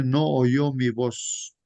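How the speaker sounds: slow emphatic reading. Shown as a demonstration. Repeating verse slowly for emphasis.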